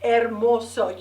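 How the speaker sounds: "Hermoso" said with no H, starting on the vowel; silent H. Shown as a demonstration. Teacher shows the class the Spanish word, H silent. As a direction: drop the H: "Hermoso" sounds like ermoso. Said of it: "You don't pronounce the H in Spanish".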